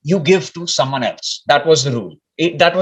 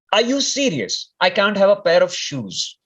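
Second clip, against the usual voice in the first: higher, disbelieving protest; retelling a plea to Swami, pitched up in mock disbelief; incredulous complaint; 5 semitones higher than usual. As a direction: act out the teenager's outrage lightly. Complaining to Swami about shoes.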